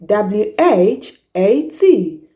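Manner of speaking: letters spelled out slowly; slow spelling. Shown as a demonstration. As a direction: spell each letter clearly. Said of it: "just one word".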